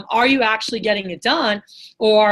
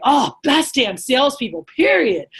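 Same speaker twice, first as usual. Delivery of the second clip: imitated going off; 3 semitones higher, 3 dB louder than usual. Businessman raving to trainer about salespeople, excited. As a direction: act out his fired-up praise, punching the end. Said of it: "He's going off".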